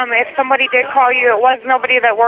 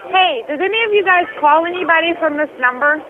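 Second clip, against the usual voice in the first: higher-pitched call across the kitchen; calling to coworkers; 4 semitones higher than usual. Real, not acted. Waitress asks the cooks who phoned, calling out. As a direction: call out a question to the staff. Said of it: "yelling to the cooks back there".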